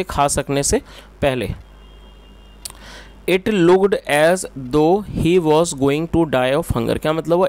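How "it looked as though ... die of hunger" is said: slow, deliberate word-group reading; slow read-aloud. Shown as a demonstration. Teacher reads the English sentence to students, slow dictation-like reading. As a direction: read it out slowly for learners.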